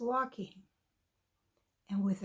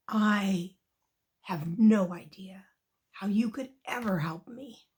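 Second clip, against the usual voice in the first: heavy, emphatic, louder lion voice; dismissive lion; 4 semitones lower, 4 dB louder than usual. Acted. Lion to little mouse offering help, dismissive. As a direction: weigh down each phrase with doubt.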